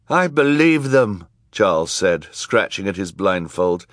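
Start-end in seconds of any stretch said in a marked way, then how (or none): 0.1-1.3 high, loud character voice; earnest supporter. A narrator's reading. Charles defending the children under his blindfold, high raised voice. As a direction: speak up for them, pitched high.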